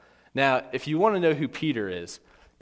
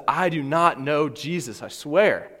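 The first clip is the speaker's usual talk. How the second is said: mock emphatic oath; raised voice, slow, insistent denial; Peter; 3 semitones higher, 4 dB louder, slower than usual. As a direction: swear it forcefully, word by word. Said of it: "Peter swears an oath and says".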